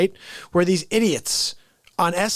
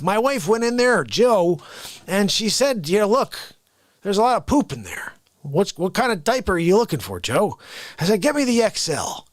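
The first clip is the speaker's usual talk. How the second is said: Joe Biden; 3 semitones lower than usual. Retold or imitated. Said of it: "No, that's not what he does at all".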